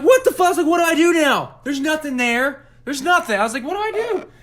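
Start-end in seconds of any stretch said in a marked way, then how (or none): 0.0-0.5 very high, loud panicked squeal; retold panic. Standing alone in the dark room, retold panicked squeal. Retelling his panic after the scare. 0.7-3.4 very high panicked wail; retold panic. Finding nothing there in the room, retold panicked wail. Retelling his panic after the scare. 3.6-4.3 very high helpless whine; retold panic. Not knowing what to do next, retold helpless whine. Retelling his panic after the scare.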